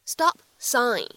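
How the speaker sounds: "stop", small gap, "sign"; unlinked "stop sign"; words kept apart. Shown as a demonstration. Separate words before linked demo.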